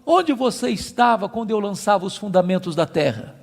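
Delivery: insistent divine cross-examination, climbing in pitch; acted voice of the Almighty questioning; God. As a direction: challenge a mortal with rhetorical questions, building. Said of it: "Deus pergunta pra Jó assim".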